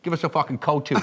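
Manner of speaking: put-on English accent for a joke; mock English accent. Comedian retries dad's food order, mock English accent. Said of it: "I'm only doing this accent".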